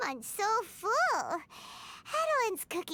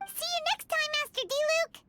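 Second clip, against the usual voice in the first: calling out goodbye; 7 semitones higher than usual. Acted. Paimon calls goodbye leaving.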